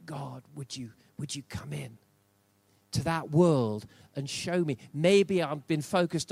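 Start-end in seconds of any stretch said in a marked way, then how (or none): 0.1-4.8 whispered prayer. Acted. Prayer voiced in a sermon.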